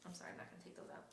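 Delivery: hushed whisper, no voice; whispered aside. Real, not acted. Stitcher whispers an apology to someone off camera.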